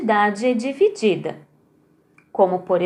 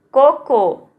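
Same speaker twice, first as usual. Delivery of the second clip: Coco. with the first co louder; stress on first CO; 2 semitones higher, 5 dB louder than usual. Shown as a demonstration. Teacher to pupils, Coco. with the first co stressed. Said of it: "No co".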